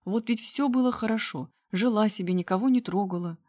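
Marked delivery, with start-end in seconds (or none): none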